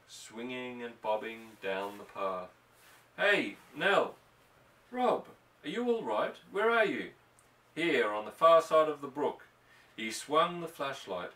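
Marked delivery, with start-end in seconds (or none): 3.2-4.1 a loud call across the dark. Acted. Calling across the brook at night. 4.9-7.1 a higher, loud worried call into the dark; anxious call. Acted. Anxious wife searching, calling out. 7.7-9.4 louder answer across the water; calling back. Acted. Answering her call across brook.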